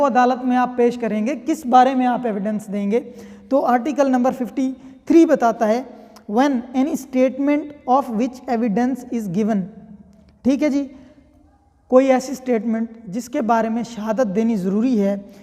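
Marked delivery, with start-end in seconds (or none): 6.3-9.6 slow statute reading. Shown as a demonstration. Reads statute text slowly.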